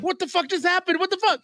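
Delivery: high-pitched shocked reaction; shocked disbelief. Retold or imitated. Reader reacting to crossbolt to the chest, shocked disbelief. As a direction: voice leaps up in re-enacted disbelief.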